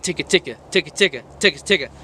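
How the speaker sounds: quick rattled ticka ticka, x1.6; fast ticka rhythm. Shown as a demonstration. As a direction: fire off the ticka beats fast. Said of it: "like this".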